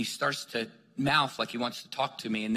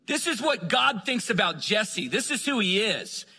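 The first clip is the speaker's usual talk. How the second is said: fervent proclamation; 7 semitones higher than usual. Retold or imitated. Re-enacts prophesying on the voicemail.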